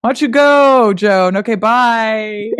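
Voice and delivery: high, exasperated brush-off; fed-up Dauphin. Retold or imitated. Host voicing the Dauphin dismissing Joan, high mock exasperation. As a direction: shoo her away, then a slow drawn bye. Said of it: "and you're like".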